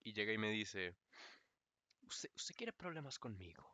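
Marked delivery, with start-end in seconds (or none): 2.0-3.6 profe furioso. Retold or imitated. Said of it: "literalmente temblando".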